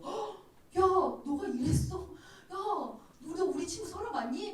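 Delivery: high, gasping mock disbelief; playfully aghast at a friend's mess; shocked friend. (기겁한 친구처럼 높은 목소리로)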